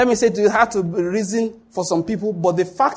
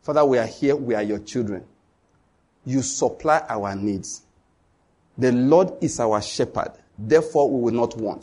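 prayer; 6 semitones lower than usual. Shown as a demonstration. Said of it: "gathered the children and said".

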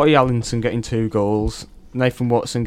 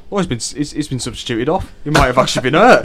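dad, laughing; 2 semitones higher, 5 dB louder than usual. Retold or imitated. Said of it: "my dad looks on the live score and goes".

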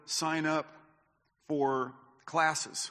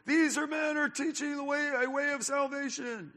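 much higher, put-on voice of the annoying woman; mocking lady's voice; 10 semitones higher than usual. Preacher mimics the lady who annoyed Paul, in a high mock voice. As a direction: mimic her sing-song praise, high and thin. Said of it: "greatly annoyed by this lady going".

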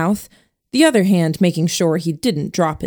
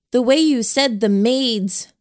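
Shipman voice; 6 semitones higher than usual. Acted. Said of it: "switched to her Shipman voice".

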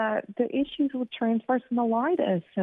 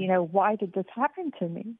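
choked up, voice catching; fighting back real tears mid-sentence; getting emotional. Real, not acted. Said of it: "I get emotional".

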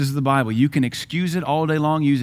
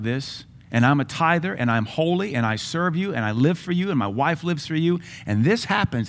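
retold protest; 3 semitones higher than usual.

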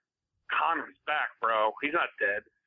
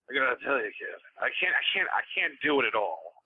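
calm Al Pacino voice. Retold or imitated. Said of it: "the calm Al Pacino voice".

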